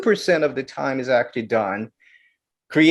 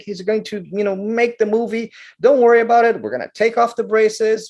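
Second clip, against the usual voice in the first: enthusiastic director; 5 semitones higher, faster than usual. Retold or imitated. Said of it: "the director says".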